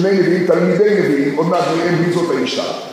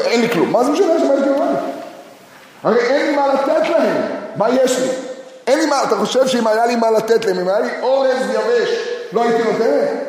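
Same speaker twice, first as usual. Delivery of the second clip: the widow's hurt protest, pitched higher; a mother stung by a pointless question; bitter widow; 3 semitones higher than usual. Acted. Voicing the widow's bitter reply. (אם כואבת ומתריסה בקול גבוה)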